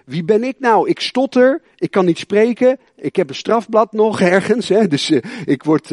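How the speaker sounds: a hint of a panicky Moses; Moses pleading. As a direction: play a stammering reluctant Moses. Moses voiced making excuses.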